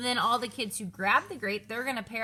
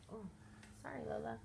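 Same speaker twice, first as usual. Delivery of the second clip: ordinary talk, nothing marked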